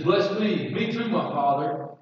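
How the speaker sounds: a mock wail, begging the father; loud bitter cry. Esau begging his father for a blessing, mildly loud pleading cry. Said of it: "he's crying this loud, bitter voice".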